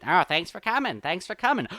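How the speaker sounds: put-on chatty host voice; different party voice. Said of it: "himself is doing these voices".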